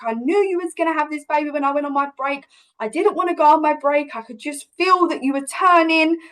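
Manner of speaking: fast eager rush of words; mildly excited, quick retelling. Retold or imitated. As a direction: burst in ready to go. Superwoman midwife rushes back.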